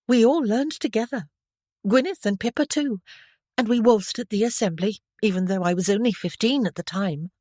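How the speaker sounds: a hint of a girl chirping up too eagerly; chirpy young girl. A narrator's reading. Stephanie eagerly telling Bertrand she can waltz, chirpy.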